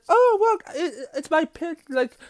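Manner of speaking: high-pitched playful character voice; voicing Wildflower. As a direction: squeal it like an excited prankster girl. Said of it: "Wildflower said".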